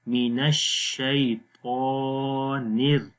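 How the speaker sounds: slow الشیطان, then a light 'nir' into الر-; thin raa after noon. Shown as a demonstration. Teacher joining noon to raa, الر- begun with a light 'nir'. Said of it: "نون کے ساتھ را کو موٹا نہیں پڑھیں گے".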